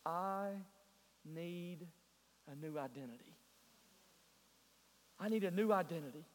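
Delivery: retold tearful plea. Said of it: "he said in tears".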